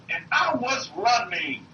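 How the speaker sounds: drawn-out, lightly imitated movie line; Forrest Gump. Preacher quoting a film to his listeners, light Forrest Gump imitation. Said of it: "when Forrest Gump said".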